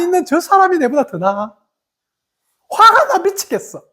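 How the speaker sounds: imitating her younger self boiling over; exasperated outburst. Younger self resenting the idle one's praise, mock exasperated outburst. Acting out jealous frustration.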